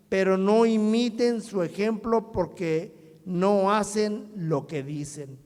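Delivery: emphatic public Bible reading; scripture reading. Acted. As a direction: proclaim the Gospel in strong, deliberate phrases. Reads Gospel passage aloud.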